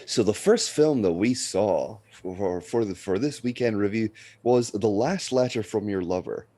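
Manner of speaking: mildly affected reviewer voice; odd presenter delivery. Real, not acted. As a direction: introduce it in a slightly put-on, measured way. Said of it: "I don't know why I'm speaking like this".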